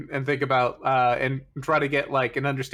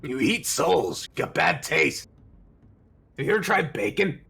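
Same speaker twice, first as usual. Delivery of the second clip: mocking taunt; 2 semitones higher than usual. Taunts creature in character.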